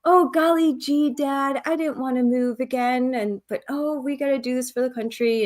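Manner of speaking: lightly voiced cheesy ad kid; hint of a gee-whiz kid; wholesome 1950s kid. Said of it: "propaganda, like".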